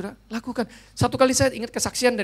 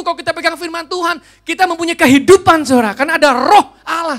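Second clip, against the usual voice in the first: full-force preaching; 7 semitones higher, 12 dB louder than usual. Acted. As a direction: thunder the scripture to the congregation. Preaching climax. (khotbah berapi-api, keras dan tinggi)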